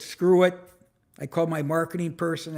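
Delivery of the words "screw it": "Screw it" said louder and with a punch on "screw"; tossing it off with a snap, loud on "screw"; dismissive "screw it". Retold or imitated. Retelling his call to the marketing person, a loud fed-up "screw it". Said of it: "So I said".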